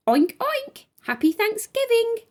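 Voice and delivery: high, squeaky piggy voice; a little pig squeaking hello. A narrator's reading. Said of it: "squeaked Pig".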